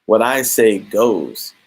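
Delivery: lightly voiced arrogant boss putting her in her place; arrogant retort. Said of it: "He's like".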